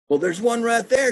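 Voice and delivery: lightly voiced old lady, teasing; lady pointing. Lady shows the naturalist the plant, high teasing voice. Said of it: "she says".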